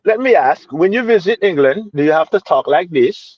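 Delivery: a clumsy, half-hearted British accent attempt; bad British accent. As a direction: try a British accent and miss it, playfully. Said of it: "My attempt was trash".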